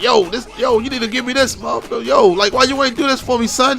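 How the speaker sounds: a hint of a hood dude ranting at a caller; hood dude yelling on the phone. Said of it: "talking like a hood dude, just yelling on the phone".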